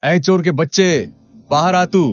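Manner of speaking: high, angry calling out at the door; threatening shout at a door; shouting at the thief. Acted. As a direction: yell him out of his hut. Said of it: "इतनी जोर से कौन चिल्ला रहा है".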